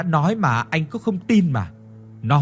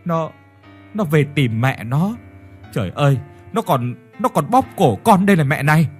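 stammering; 2 semitones higher, 3 dB louder than usual. Acted. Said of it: "nhăn mặt rồi ấp úng".

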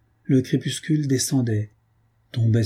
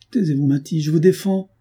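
raised, higher-pitched command; urgent forbidding; 5 semitones higher than usual. Acted. Man ordering Matty to be silent, urgent forbidding. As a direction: cut her off urgently, rising in pitch.

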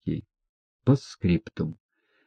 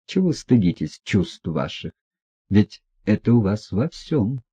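plain reading voice

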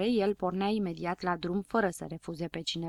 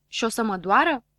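frightened; 5 dB louder than usual. Acted. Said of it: "se sperie habar n-am".

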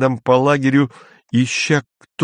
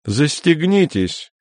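disgusted; 5 semitones higher, slower than usual. Acted. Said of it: "сказал полковник брезгливо".

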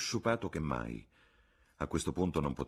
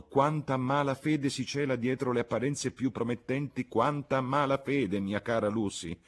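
high-pitched, mounting complaint; aggrieved gentleman airing his troubles; indignant lament; 7 semitones higher, 4 dB louder than usual. Acted. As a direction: bemoan it with growing exasperation. Landlord laments dishonest applicants.

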